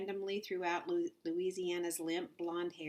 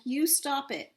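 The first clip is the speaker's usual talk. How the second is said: higher and louder frantic plea; desperate shout; 8 semitones higher, 6 dB louder than usual. Acted. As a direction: keep shouting at the teacher. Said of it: "shouted Louisiana".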